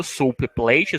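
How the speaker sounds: "Soup plate" as one smooth unit, no pause between the words; one block. Shown as a demonstration. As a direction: join "Soup plate" into a single sound block. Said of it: "não pausem no meio". ("Soup plate" como um único bloco de som)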